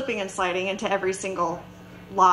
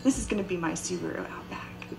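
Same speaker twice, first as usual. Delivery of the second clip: soft, lowered voice of inner wishing; hushed longing; 3 semitones lower, 6 dB quieter than usual. Retold or imitated. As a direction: murmur it privately to yourself. Inner voice admiring the car.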